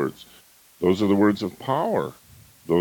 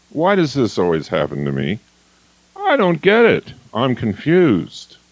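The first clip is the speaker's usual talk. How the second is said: imitating a bewildered victim; 3 semitones higher than usual. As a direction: play her helpless confusion. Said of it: "woman tell me".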